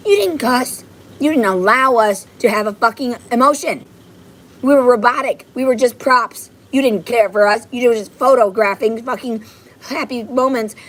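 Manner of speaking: indignant, heated venting; mad. Real, not acted. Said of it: "And I'm fucking mad".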